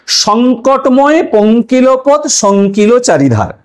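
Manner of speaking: very slow, savoured reading of a verse line; slow recitation. Shown as a demonstration. Teacher repeating a favourite example verse, very slowly. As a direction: linger on each word of the verse. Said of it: "ছ নম্বর উদাহরণ দেখুন".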